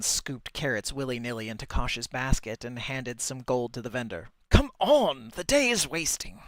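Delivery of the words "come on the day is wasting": higher, louder call to hurry up; impatient shout. Acted. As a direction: shout him along impatiently. Birdman hurrying Kosh along.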